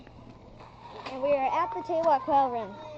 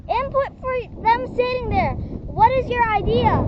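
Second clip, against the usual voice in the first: raised high shouting voice; calling over; 8 semitones higher, 8 dB louder than usual. Real, not acted. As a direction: call it out so he hears from afar. Shouting to friend across area.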